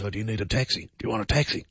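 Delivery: softly imitating a hushed tout; a mild hush, offering a taxi on the sly. Airport tout quietly offering the host a taxi, hushed. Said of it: "said sort of in a hushed voice".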